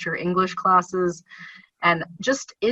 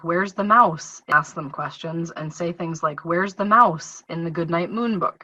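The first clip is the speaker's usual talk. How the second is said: engaging reading questions. Shown as a demonstration.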